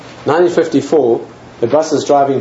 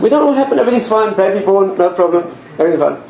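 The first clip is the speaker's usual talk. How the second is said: higher, tumbling with relief; a father's overjoyed report; relieved excitement; 5 semitones higher than usual. Retold or imitated. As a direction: blurt out the good news. Father reports relieved good news.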